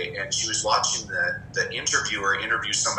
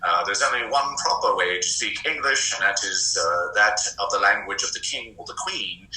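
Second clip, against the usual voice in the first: a hammed-up posh British newsreader voice; mock BBC announcer. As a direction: put on a plummy BBC news read. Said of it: "listen to that B B C".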